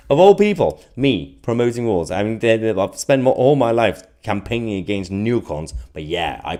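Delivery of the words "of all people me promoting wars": incredulous. Real, not acted. Accused of warmongering, answering with incredulous disbelief. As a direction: voice jumps up high and loud in disbelief. Mocked as promoting wars.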